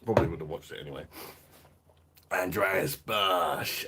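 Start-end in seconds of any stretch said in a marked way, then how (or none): 2.3-3.9 calling out. Real, not acted. Greeting a viewer on live.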